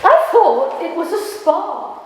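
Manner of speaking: a mild put-on southern English accent, snapped high; lightly mock a southern English boyfriend's snap. Poet mocks her friend's southern boyfriend, mild southern accent. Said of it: "I can't do a southern accent, but I'll do it".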